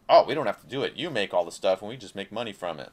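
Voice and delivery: mock company. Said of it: "It just means".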